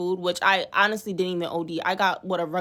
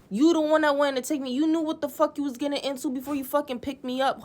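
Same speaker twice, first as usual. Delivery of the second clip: raised, higher-pitched indignant rant; 6 semitones higher than usual. Real, not acted. She rants at her date about the gas money, indignant and raised. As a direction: let the outrage push the pitch up.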